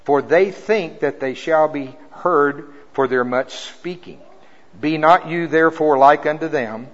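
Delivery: scripture reading. Acted. Reads scripture slow and loud.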